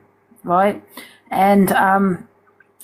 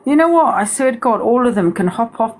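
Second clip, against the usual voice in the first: angry outburst; 3 semitones higher than usual. Real, not acted. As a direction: snap out in real fury at the critics. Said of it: "That's 'cause I am mad".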